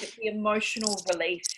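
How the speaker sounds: soft whisper; whispered reassurance. Real, not acted. Coach soothing the tearful participant in a whisper. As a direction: breathe it out gently.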